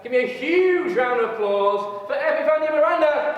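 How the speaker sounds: loud, high host introduction; announcer call. Real, not acted. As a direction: call her name out to the crowd. Host calls speaker onto stage.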